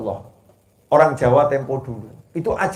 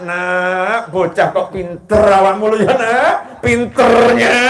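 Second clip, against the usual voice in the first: mock angry scolding; 4 semitones higher, 3 dB louder, slower than usual. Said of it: "Marahnya sama anak".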